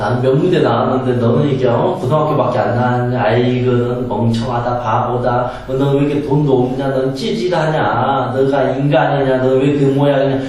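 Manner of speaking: mock belittling, strung out in one run; understated imitation of scornful nagging; contemptuous nagging. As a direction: lightly act a snob looking down on someone. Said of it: "이런 식으로 사람을 잔소리하고 무시하고 깔보는".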